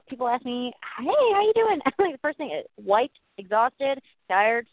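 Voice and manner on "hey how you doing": high, loud, cheery greeting; put-on bubbly hello; chirpy greeter. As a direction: imitate an upbeat passer-by saying hello. Acts out people greeting her.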